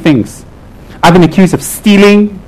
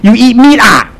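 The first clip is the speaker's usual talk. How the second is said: higher-pitched mock disbelief; retold shocked question; 6 semitones higher than usual. Mimicking devotees who question a lama's diet, mock shock. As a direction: imitate a scandalised devotee, pitched up. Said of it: "Sometimes they ask me".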